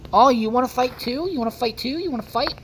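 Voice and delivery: taunting. Real, not acted. Taunting the dolphin.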